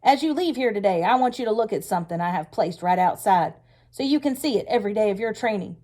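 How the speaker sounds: loud, high, sharp-edged war speech; sharper angry voice. Acted. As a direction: hammer home the threat, furious. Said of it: "his voice getting even sharper".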